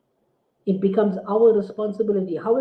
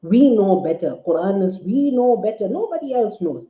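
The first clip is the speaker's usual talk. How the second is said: smug mock quote; 4 dB louder than usual. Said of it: "what they are actually saying is".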